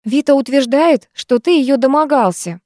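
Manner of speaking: tentative, careful statement; hesitant. A narrator's reading. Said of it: "неуверенно начала Лена".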